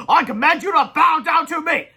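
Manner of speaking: slow, loud, high commanding roar; villain shout. A narrator's reading. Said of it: "shouted Big Melvin".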